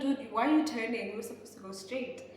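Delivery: loud "Dude, why are you turning?"; retold shout. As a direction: call him out loudly. Yelling at driver turning.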